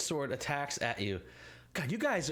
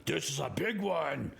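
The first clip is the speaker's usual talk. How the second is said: ettin heads; slower than usual. Acted. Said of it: "both heads, in fact, look like".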